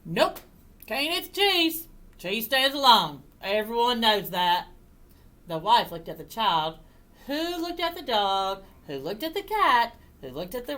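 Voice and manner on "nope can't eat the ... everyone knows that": farmer refusing. Acted.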